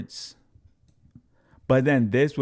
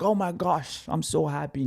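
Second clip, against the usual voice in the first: gushing fan; 7 semitones higher than usual. Retold or imitated. Voicing thrilled community members.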